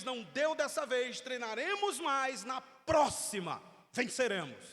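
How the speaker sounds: loud, slow vow to win next time; a determined coach rallying; coach promising. Retold or imitated. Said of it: "mas ele diz".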